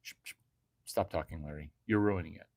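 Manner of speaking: whispered shushing, very soft and low; breathy whisper. Retold or imitated. The woman shushing Larry mid-moment, soft whisper. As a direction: hush him tenderly, nearly silent. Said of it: "you would say something like".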